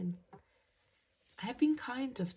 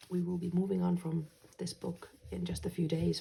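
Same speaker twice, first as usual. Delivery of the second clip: whispering; 3 dB louder than usual. Real, not acted. Reminder aside.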